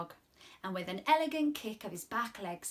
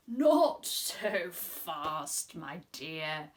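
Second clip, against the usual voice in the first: frog voice; 6 semitones lower, 4 dB louder, much slower than usual. Acted. Frog slowing her down.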